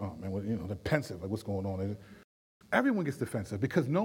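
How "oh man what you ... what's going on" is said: put-on kids whining. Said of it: "and they be like".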